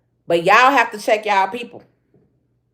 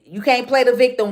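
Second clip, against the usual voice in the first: ordinary talk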